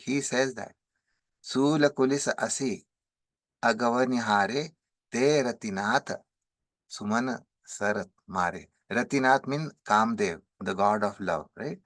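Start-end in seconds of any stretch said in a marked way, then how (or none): 1.4-8.7 brisk sing-song chanting of the chaupai; verse recitation. Acted.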